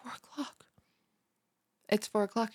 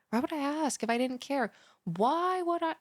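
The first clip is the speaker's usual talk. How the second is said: indignant, building; 7 semitones higher, 4 dB louder than usual. Acted. Repeats question, rising insistence.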